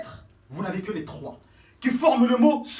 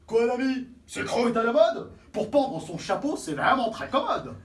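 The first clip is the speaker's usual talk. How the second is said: cavalier; 2 semitones higher, 4 dB louder than usual. Acted.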